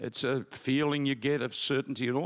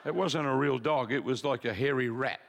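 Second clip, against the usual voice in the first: laughing. Real, not acted. Comic story about the dog.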